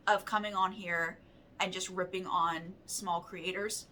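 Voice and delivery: talking through hiccups; hiccuping between words. Real, not acted. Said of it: "Excuse me, I've got the hiccups".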